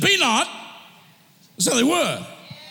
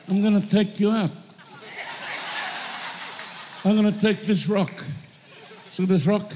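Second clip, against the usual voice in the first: fast, swaggering taunt to a giant, with laughs; cocky David taunting; 3 semitones lower, faster than usual. Retold or imitated. David taunting Goliath before the fight, fast and cocky. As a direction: brag it out quick like a cheeky young fighter. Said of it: "It was words to that effect".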